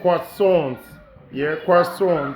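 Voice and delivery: croissant said carefully the French way, "kwah-son"; French pronunciation. Shown as a demonstration. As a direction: draw out croissant as "kwor-SON". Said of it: "It's French".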